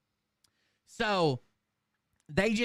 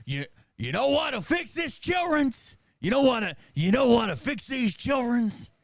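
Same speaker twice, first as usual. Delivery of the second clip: preacher voice; 4 semitones higher than usual. Retold or imitated. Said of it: "the preacher goes".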